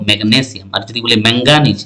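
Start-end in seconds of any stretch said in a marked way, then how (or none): 0.1-0.7 ম্যাগনেসিয়াম stressed on the গ. Shown as a demonstration. Teacher explaining the symbol Mg, ম্যাগনেসিয়াম stressed on the g. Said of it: "গয়ের উপর, এই জন্য দেখো". 1.3-1.8 ম্যাঙ্গানিজ stressed on the n sound. Shown as a demonstration. Teacher explaining the symbol Mn, ম্যাঙ্গানিজ stressed on the n. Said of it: "এখানে এন এর উপর পড়ছে".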